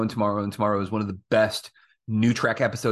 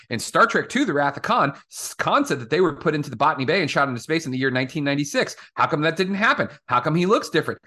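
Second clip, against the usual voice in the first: mock fanboy complaint; faster than usual. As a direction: whine like a pedantic fanboy.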